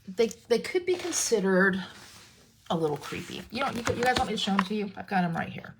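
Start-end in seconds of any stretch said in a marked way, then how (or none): 5.0-5.7 hushed, teasing aside to viewers; conspiratorial whisper. Real, not acted. Crafter whispers to viewers about creepy turtles, teasing whisper. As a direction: whisper it like a little secret.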